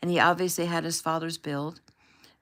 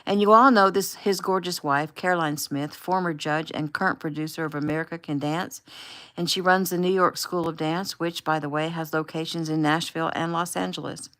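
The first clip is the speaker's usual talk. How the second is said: gushing introduction; 5 dB louder than usual. Acted. Taylor introducing guests on livestream.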